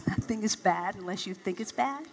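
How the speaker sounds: soft, doubting echo of the minister's words, repeated under the breath; skeptical inner echo. Retold or imitated. Young woman doubting the minister's words, quiet scoff. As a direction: mutter it back in disbelief. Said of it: "inside myself".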